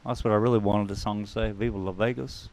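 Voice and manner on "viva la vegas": Impression of a famous singer. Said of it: "my very bad im-, singer impersonation".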